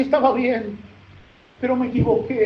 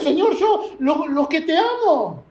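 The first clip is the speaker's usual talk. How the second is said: Peter weeping; 5 semitones higher than usual. Acted. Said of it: "Pedro lloraba y decía".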